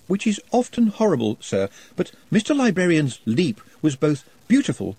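earnest shy reasoning; lightly voiced timid goblin.

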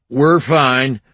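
eager placating; smooth it over quickly; conciliatory. A narrator's reading. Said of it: "suddenly conciliatory".

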